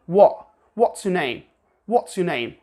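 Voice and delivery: What's with a glottal T, British style. Shown as a demonstration. Teacher shows the British glottal T. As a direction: drop the T to a glottal stop. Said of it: "sometimes with the glottal T".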